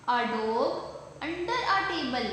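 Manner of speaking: slow, word-by-word classroom reading; model reading aloud. Shown as a demonstration. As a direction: read it out slowly and clearly for young learners. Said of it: "इसकी reading करते हैं".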